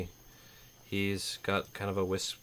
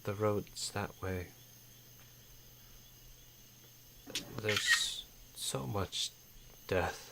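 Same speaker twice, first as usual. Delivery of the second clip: put-on crying old man; 7 dB quieter, much slower than usual. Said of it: "and he's actually crying".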